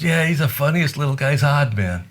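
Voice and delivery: high, loud mock of an old bluesman chuckling over a guest; hammed-up old pianist tickled by it; old piano man's amused voice. Red's voice in the story.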